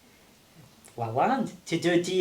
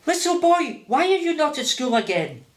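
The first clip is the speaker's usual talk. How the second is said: high, louder mock French accent; Isabel's French accent; 9 semitones higher, 4 dB louder than usual. Boss's wife challenges the truant boy, imitated French accent. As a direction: call out sharply as an imitated Frenchwoman. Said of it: "love it when he does Mummy's accent".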